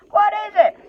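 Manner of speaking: high, loud trolls' question. Acted. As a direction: trolls crowding round to see the catch. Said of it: "said the others".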